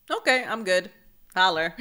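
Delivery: put-on loud, carefree kid voice; eager kid. Girl tells grandma she's happy to stay, loud and eager. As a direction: blurt it out like a delighted child. Child's eager reaction to new home.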